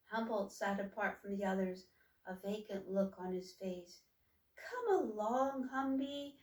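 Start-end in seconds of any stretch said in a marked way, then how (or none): 4.6-6.4 pleading. Acted. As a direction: coax him gently to eat. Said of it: "pleaded Troika".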